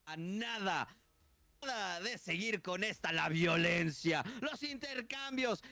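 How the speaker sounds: lucha libre announcer. Acted. Caster hypes the match intro.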